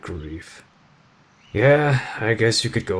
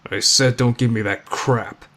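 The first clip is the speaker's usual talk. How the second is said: I said don't give me that crap, louder and emphatic; firmer repeat; 2 semitones higher, 4 dB louder than usual. Acted. Jotaro repeating himself to the listener, louder. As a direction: hit said hard, insistent. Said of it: "You heard me".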